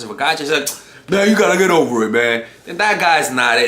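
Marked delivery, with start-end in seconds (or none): 1.1-2.4 quick, louder dismissive guy voice; voicing a boyfriend who won't show patience; impatient boyfriend. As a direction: brush her off fast like a careless boyfriend.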